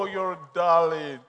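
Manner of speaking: gushing thanks. Acted. Wife thanking her man for the bag, gushing. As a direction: melt with mock-sweet thanks.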